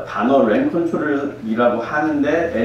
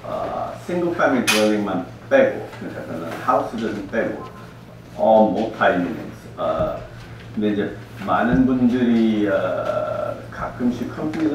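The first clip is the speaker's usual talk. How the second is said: Korean American accent; 4 dB quieter than usual. Real, not acted. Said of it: "제가 한국말 좀 서툴 수 있으니까".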